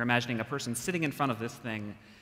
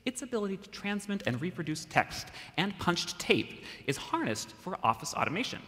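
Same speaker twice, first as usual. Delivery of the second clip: higher, grand 1950s announcer voice; old-timey radio announcer; 7 semitones higher than usual. Acted. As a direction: read it like a vintage radio ad. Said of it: "go old-timey radio announcer".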